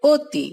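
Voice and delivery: অতি said as oti, first vowel a closed o; spoken pronunciation. Shown as a demonstration. Teacher showing how অতি is really said, closed o. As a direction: read অতি with a rounded o, not an open aw. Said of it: "আমরা বলি".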